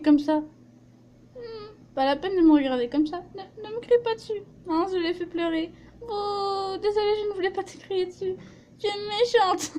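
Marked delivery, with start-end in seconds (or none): 3.4-9.7 put-on high, fast childish whine. Crying child, apologetic girl.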